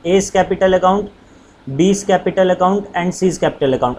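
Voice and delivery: very slow, word by word for writing down; slow dictation. Shown as a demonstration. Teacher dictating slowly to students writing notes. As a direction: dictate each word so students can copy. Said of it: "आप पूरा पूरा लिख लेना".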